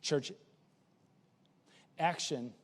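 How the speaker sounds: soft, low opening line; quiet low statement of the theme. Acted. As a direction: hush it, draw them in. Pastor softly states theme.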